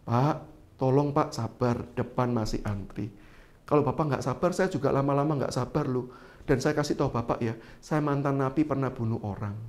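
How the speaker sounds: soft, calm menacing warning; softly spoken. Retold or imitated. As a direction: speak gently, let the threat sit underneath. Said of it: "saya ngomongnya halus". (pelan dan halus, ancaman tenang)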